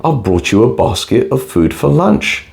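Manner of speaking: put-on wolf faking a little girl voice; girlish voice. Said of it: "in a girlish voice".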